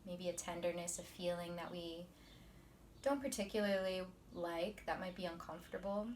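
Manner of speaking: soft, measured meditation teacher voice; quiet, unhurried guidance; guided meditation. Acted. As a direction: ease them into calm, leaving long pauses.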